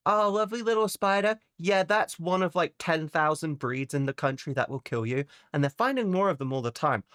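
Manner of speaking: a hint of a breezy Australian local; mock Aussie local. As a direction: cheerfully warn of deadly things. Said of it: "every creature there wants to kill you".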